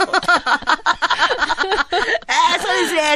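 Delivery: mock a brave polite smile through it; forced smile. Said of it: "頑張って笑顔で言うてる".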